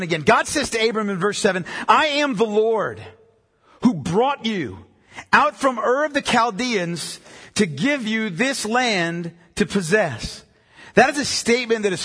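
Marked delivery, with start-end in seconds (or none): 1.9-10.4 slow, weighty declaration with deliberate pauses; solemn scripture reading. Acted. Preacher reading God's words to Abram, slow and solemn. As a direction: read it out slowly, phrase by phrase. Reads scripture aloud slowly.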